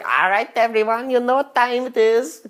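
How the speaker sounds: rally the room like a party host; mock emcee. Emcee on stage addressing the crowd, hyped host voice.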